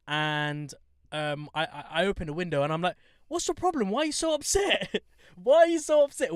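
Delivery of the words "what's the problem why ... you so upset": high-pitched, smiling mock concern; cheery, with a smile. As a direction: ask it high and friendly through a smile. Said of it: "With a smile on my face".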